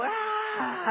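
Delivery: high excited "ah" cry; sudden high-pitched fan yell; retold yell. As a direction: yelp it high, not at full volume. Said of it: "I start to yell".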